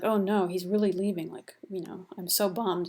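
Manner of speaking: whispered, offhand mock sadness; flippant mock lament. Teacher mocking Dido's heartbreak, flippant whispered lament. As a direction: toss off Dido's grief like a bored teen. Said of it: "I'm being kind of flip with this".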